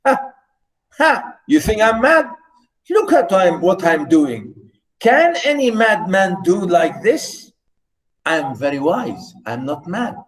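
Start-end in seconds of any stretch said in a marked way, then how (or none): 0.1-7.5 mocking laugh. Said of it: "he's asking us and he's laughing".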